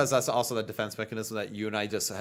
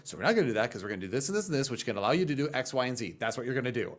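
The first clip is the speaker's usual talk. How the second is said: quick-fire retold lecture; imitated rant; 3 semitones higher, faster than usual. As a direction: rattle it off like a friend laying down the plan. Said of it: "goes on a whole rant".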